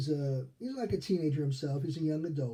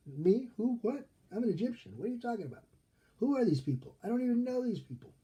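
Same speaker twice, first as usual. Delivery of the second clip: higher-pitched, baffled protest; mock incredulous; 7 semitones higher, faster than usual. Moses balking at being recruited by God, mock incredulous. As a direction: play baffled disbelief at being picked.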